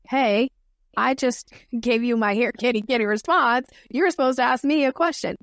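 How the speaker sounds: lightly acted protest, pitch lifting; mildly put-out complaint; mock indignant. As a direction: play at scolding someone off script. Mock scolding of a listener off script.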